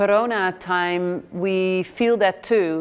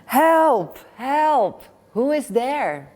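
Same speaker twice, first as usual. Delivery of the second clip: eager calling; 6 semitones higher, slower than usual. Acted. Pilgrim calls to unseen voice.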